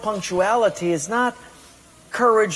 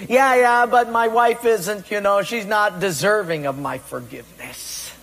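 whiny excuse; 3 semitones higher than usual. Retold or imitated. Mimicked excuse.

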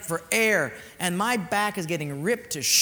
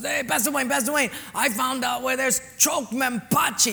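imitating an eager kid, higher-pitched; excited kid calling; 5 semitones higher than usual. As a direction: call out a great find to the pastor. Excited kid calls pastor from water.

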